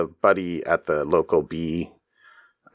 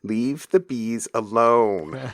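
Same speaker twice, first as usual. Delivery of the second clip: wife; 6 semitones higher, slower than usual. Retold or imitated. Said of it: "was like".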